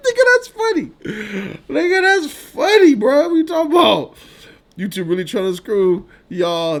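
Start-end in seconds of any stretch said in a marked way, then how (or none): 0.1-4.2 loud, high-pitched laughing talk; amused disbelief at a viewer comment. Real, not acted. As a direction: speak through real laughter.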